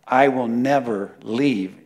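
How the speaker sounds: "never" 拉长重读; 一字一顿地说 never; stress on never. Shown as a demonstration. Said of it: "you have to say it three times".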